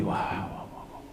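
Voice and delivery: very soft unvoiced barks; faint imitated barking. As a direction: breathe out fading dog barks. Imite l'aboiement qui s'éteint. (aboiements soufflés, très faibles)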